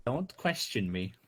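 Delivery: slow, loud, bossy command; hammed-up boss, slow and firm; mock authority.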